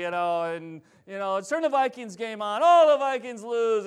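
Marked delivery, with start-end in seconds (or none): 1.4-3.9 mock whining dad, higher and louder on the letdown; imitated dad whine, pitched up; whiny. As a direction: moan like a sulky sports-fan dad. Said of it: "it's just like whiny".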